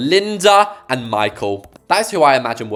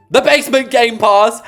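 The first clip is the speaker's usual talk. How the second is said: big hyped-up announcer reveal, higher and louder; excited reveal; 9 semitones higher, 7 dB louder than usual. Real, not acted. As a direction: sell it like a game-show prize. Hyping her secret weapon.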